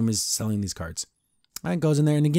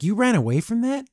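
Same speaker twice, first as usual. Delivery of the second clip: higher, indignant questioning in V's voice; V reproaching Luce, mildly upset and higher; 6 semitones higher than usual. Retold or imitated. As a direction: scold Luce for leaving a kind mom. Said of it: "she's even upset with Luce".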